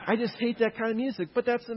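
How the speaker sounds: said through a laugh. Real, not acted. Lecturer admits hating country music, laughing as he says it. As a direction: chuckle through the confession. Laughing at his own joke.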